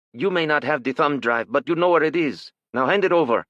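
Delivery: put-on thick Asian accent. A narrator's reading. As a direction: press him hard, Asian-accented intruder. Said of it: "in a thick Asian accent".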